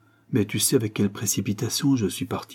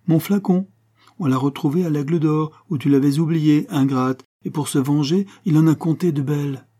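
higher-voiced, lively teasing sister; 5 semitones higher, 4 dB louder than usual. Elder sister revealing to her sister what gave her away, teasing. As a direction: tease her with playful reproach, pitched up.

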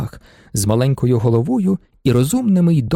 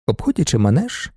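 plain reading voice

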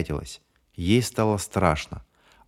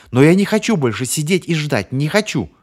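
high, loud hysterical cry; on the edge of breaking, crying it out; 7 semitones higher, 6 dB louder than usual. Acted. Bonnie refuses to wait any longer, hysterical and high. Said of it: "истерические нотки".

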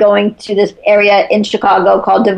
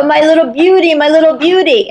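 imitating grandma's higher-pitched greeting; doting grandmother; 6 semitones higher than usual. Grandmother dashes down the stairs to greet her granddaughter, doting higher voice. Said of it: "she'd come dashing down the stairs".

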